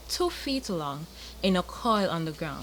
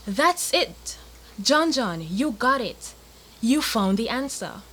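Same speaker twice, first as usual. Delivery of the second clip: excited shout; 3 semitones higher than usual. Acted. Big brother cries out that he has found the answer, excited. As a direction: burst out with the idea. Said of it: "jumped up and shouted".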